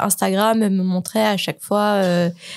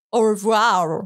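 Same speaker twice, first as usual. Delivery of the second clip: blurted French goodbye; slower than usual. Retold or imitated. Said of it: "je dis".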